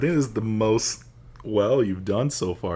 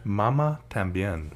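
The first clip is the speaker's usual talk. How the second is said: whispered; slower than usual. Real, not acted. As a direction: hush it out like a secret. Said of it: "Since David said it that way".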